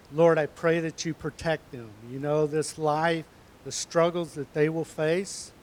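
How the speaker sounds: put-on earnest pastor's prayer to the children. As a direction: pray over them steadily and sincerely. Leads a closing prayer.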